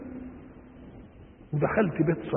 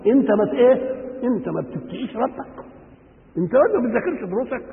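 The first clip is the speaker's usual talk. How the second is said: a reproachful question pushed out on a full breath, partly higher; 5 semitones higher than usual. Retold or imitated. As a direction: scold him with real force and disbelief, a little quicker at the end. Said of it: "ويجيبها بالنفس". (عتاب بنَفَس قوي وتعجّب)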